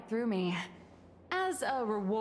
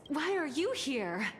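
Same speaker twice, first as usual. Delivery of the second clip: slow, higher mock question; mimicking the visitor; 6 semitones higher than usual. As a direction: parrot their line back teasingly. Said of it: "Your next line is".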